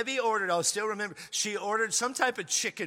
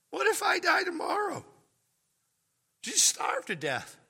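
much higher shout; mock alarm shout; 13 semitones higher than usual. Preaching to the congregation, high mock-alarm shout. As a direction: cry it out in mock panic.

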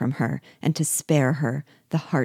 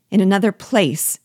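louder, higher distressed question; faltering; 5 semitones higher, 6 dB louder than usual. A narrator's reading. Wife questioning husband's promise to meet, distressed and faltering. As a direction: repeat it in disbelief, voice jumping up. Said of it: "in faltering accents".

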